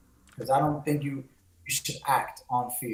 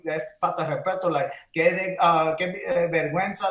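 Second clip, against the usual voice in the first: Spanish exclamation; 2 semitones higher, 4 dB louder than usual. Retold or imitated. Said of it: "the nerve of this".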